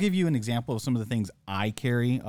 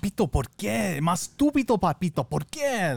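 high-pitched mock Spanish yell; put-on scolding, pitched way up; dad yelling in Spanish; 9 semitones higher, 3 dB louder than usual. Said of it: "when he yells at me in Spanish".

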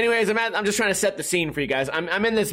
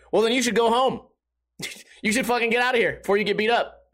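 mildly impatient, slightly raised pitch; retold fed-up brush-off; impatient dismissal; 6 semitones higher than usual. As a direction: send him away with no patience. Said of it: "I had no patience for this fucking guy".

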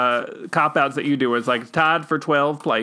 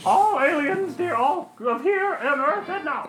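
much higher, sweet church-lady voice; prim churchgoing wife; 13 semitones higher than usual. Pretend. Wife replies in role.

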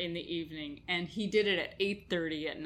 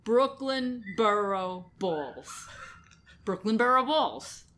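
put-on Brooklyn accent; slower than usual. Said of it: "You have to do it in a Brooklyn accent".

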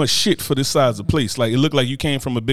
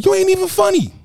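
mocking jab; 3 dB louder than usual. Real, not acted. Roasting a social media personality.

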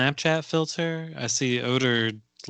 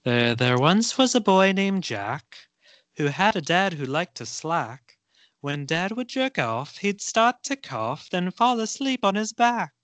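put-on Irish accent; 5 semitones higher than usual. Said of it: "my best Irish accent".

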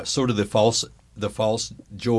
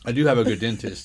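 chewing while talking. Real, not acted. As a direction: mouth full of gum. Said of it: "Excuse my chewing".

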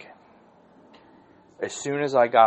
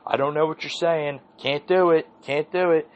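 high-pitched, loud mock frustration; hammed-up exasperated complaining; Bill O'Reilly imitation; 9 semitones higher, 4 dB louder than usual. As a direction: imitate an exasperated anchor's rant. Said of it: "They were starting to do that".

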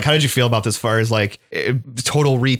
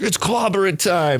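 gruff Ben Grimm line; 7 semitones higher, slower than usual. Retold or imitated. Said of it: "He's like".

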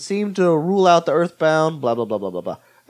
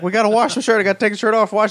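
lightly imitated urgency, higher pitched; mock fretting in a raised pitch; Charlie Day; 7 semitones higher, faster than usual. Party guest fretting over a stained shirt, mildly panicked imitation. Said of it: "my impression of Charlie Day".

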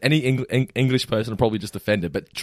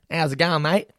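higher-pitched cliché Aussie greeting; mock Aussie accent; 6 semitones higher than usual. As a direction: imitate an English person faking Australian. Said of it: "we sound like this".

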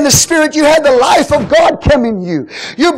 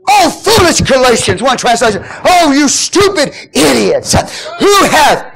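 furious Paul. Acted. Preacher voicing Paul scolding the Galatians, fiery. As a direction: thunder it at the Galatians. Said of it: "that's the emotion of it".

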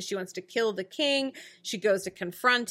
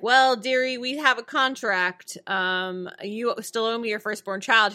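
Rumpelstiltskin voice. Retold or imitated. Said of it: "Rumpel's like".

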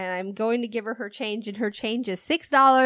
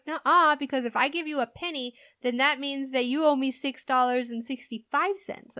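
higher quick insisting; mock customer arguing; 4 semitones higher than usual. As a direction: argue quickly like a confused customer. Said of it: "she was like".

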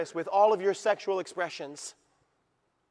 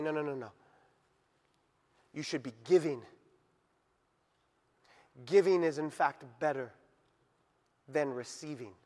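soft, low fatherly correction; gentle correction; 5 semitones lower, 5 dB quieter than usual. Acted. God gently correcting the world's advice, softly. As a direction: ease them gently toward giving.

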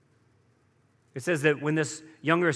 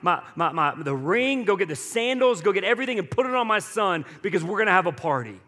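a hammed-up joyful father calling out to the servants, louder and higher; excited father; 4 semitones higher, 4 dB louder than usual. Father calling to his servants for the feast, excited and loud. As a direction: call it out like a dad throwing a party.

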